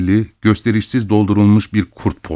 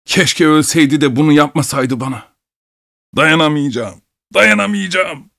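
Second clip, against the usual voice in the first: high, anguished lament; despairing outburst; 6 semitones higher than usual. A narrator's reading. Betrayed husband tells the doctor he cannot bear it, wailing. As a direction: wail it, climbing higher on the last cry.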